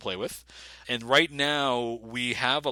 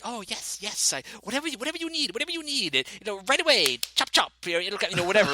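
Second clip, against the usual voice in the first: high, eager, servile shopkeeper voice; fawning merchant; 9 semitones higher, faster than usual. Retold or imitated. Merchant bowing and scraping to adventurers, fawning. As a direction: grovel to please the customer, pitched up. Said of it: "like a fawning merchant who's like".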